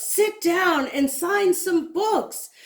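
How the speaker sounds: slow, high, loud call; a fan shouting for him to sign books; shouting request. A narrator's reading. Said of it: "someone shouts".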